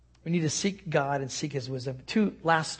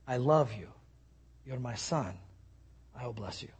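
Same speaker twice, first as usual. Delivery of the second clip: tender voice of God; 4 semitones lower, 7 dB quieter than usual. Retold or imitated. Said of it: "God will say to you".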